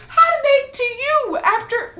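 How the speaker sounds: high-pitched, stretched-out amazement; incredulous. Real, not acted. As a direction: squeal the question in drawn-out disbelief. Incredulous about the usher.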